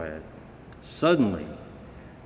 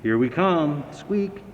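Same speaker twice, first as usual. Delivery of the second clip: cheery call ending in a very high squeak; the bell announcing itself; 5 semitones higher than usual. A narrator's reading. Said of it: "called the bell".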